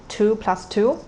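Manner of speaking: two plus two, both rising; rising tones. Shown as a demonstration. Teacher modeling rising tones for learners.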